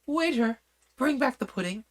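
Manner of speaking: high, loud call to the waiter. Acted. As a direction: call across the hall to the waiter. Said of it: "she called out".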